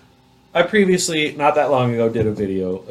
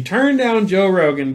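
slow, higher, near-shouted disbelief; excited emphasis; 7 semitones higher than usual. Real, not acted. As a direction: lean in and drive it home. Telling the amazing refusal.

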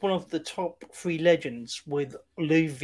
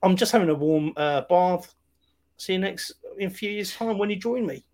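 cheerful resigned senator; 5 semitones higher, 4 dB louder than usual. Retold or imitated. Senator voiced accepting death.

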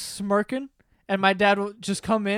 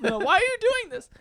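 mock whine; 12 semitones higher than usual. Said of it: "he wouldn't be like".

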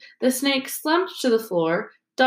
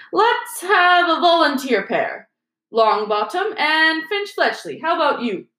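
a vain teacher hamming it up for the crowd; Lockhart; 8 semitones higher than usual. A narrator's reading. Lockhart voiced in read story.

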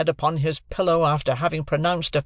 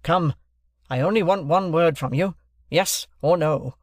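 high, insistent questioning; bullying interrogation; 5 semitones higher, 3 dB louder than usual. A narrator's reading. Stranger demands one word from Wopsle, bullying. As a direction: hammer the witness for yes or no. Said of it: "in a bullying, interrogative manner".

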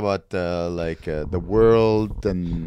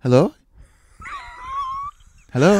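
rising, louder hellos, each higher; caller on a bad line; 10 semitones higher, 7 dB louder than usual. Caller on the radio show repeating hello, rising louder and higher. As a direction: call out hello into a dead line.

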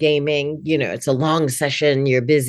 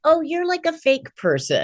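unimpressed; 11 semitones higher than usual. Retold or imitated. Retold reaction to robocall.

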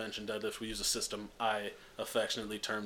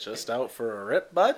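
mock Canadian hoser; 8 dB louder, slower than usual.

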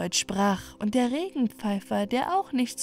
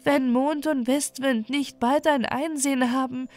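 mild sadness in a higher princess voice; sad voice; 5 semitones higher than usual. Acted. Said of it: "antwortete dieses mit trauriger Stimme". (leicht traurige, höhere Stimme)

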